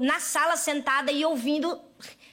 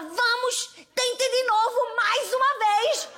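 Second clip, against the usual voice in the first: sing-song coaxing; 6 semitones higher, much slower than usual. Retold or imitated. Sister coaching doll dressing.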